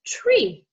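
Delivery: "tree" said as one joined word; "tree" blended without a gap; blended sounds. Shown as a demonstration. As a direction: run t and r together in "tree". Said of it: "if we speed it up".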